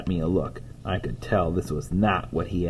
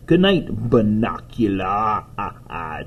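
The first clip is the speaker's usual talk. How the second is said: lightly spooky drawn name with laugh; playful Dracula touch, laugh trailing away; spooky vampire good night; slower than usual. Acted. Toby saying good night to the rabbit, playfully spooky.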